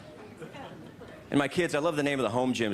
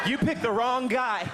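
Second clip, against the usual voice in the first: mock tough guy; 9 semitones higher than usual. Tae Bo guy taunting.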